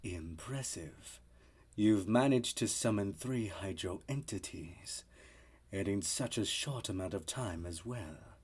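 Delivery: quiet stern mentor. Acted. Final retake.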